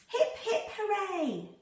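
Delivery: high, rising hip hip hooray; excited cheer. Acted. Hoppy the rabbit feeling the warm ground, high excited hip hip hooray. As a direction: cheer like it's the best day ever.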